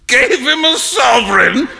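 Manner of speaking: loud rising shout. A narrator's reading. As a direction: shout it out in amused disbelief. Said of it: "shouted Trevor".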